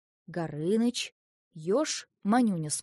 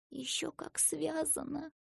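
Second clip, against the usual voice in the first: soft, higher, slowed retort; arguing whisper; 8 semitones higher, 8 dB quieter than usual. A narrator's reading. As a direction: argue back under your breath. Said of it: "шёпотом заспорила Ася".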